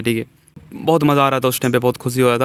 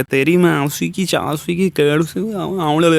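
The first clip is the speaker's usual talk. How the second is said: mock drunk abuse; 3 semitones higher than usual. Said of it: "पूरा language निकाल के".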